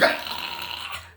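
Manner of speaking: soft, voiceless mock scream; imitated child's scream. Six-year-old screaming at a passer-by, soft imitated scream. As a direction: imitate a small kid screaming, held back in volume. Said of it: "in order to scream at me".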